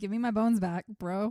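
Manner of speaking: ordinary delivery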